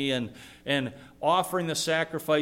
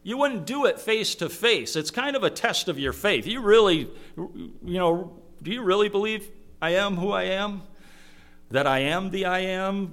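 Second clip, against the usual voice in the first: higher, mocking challenge; sarcastic God; 5 semitones higher than usual. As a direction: needle them with sarcasm, pitched up. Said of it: "I think, sarcastic".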